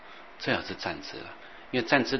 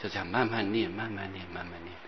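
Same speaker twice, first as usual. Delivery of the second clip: fading repetition; 5 dB quieter than usual. Shown as a demonstration. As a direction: let the repeated phrase sink to very quiet. Models gentle repetition, fading away.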